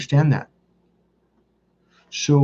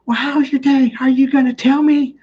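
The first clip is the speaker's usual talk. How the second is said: high-pitched impatient demand; squeaky mock nagging; mock exasperated wife; 12 semitones higher than usual. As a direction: imitate a fed-up wife, voice pushed way up. Wife asks a third time, exasperated.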